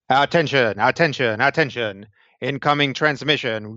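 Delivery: repetitive automated announcer drone; mechanical voice. Acted. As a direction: announce it like a machine alert. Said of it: "like, very mechanical voice".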